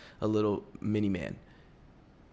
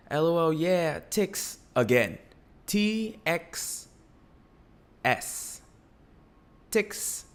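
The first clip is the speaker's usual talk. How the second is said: high mocking voice reading "T X S" out as "ticks"; imitating mom; 7 semitones higher, slower than usual. Son mimics mom pronouncing "ticks" in a high voice. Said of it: "she goes".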